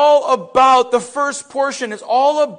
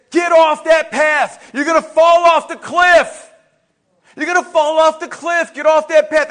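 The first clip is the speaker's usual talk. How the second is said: high, loud warning shout; urgent shout; 6 semitones higher, 6 dB louder than usual. Acted. God warns walker heading for cliff, urgent shouting. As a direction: yell to stop someone walking off a cliff. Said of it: "And he's shouting and shouting".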